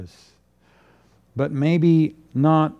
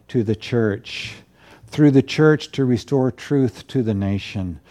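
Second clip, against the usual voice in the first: measured, deliberate pulpit prayer; closing prayer. Real, not acted. Pastor asks the Lord to show us truth, earnest prayer. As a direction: pray it in slow, separated phrases.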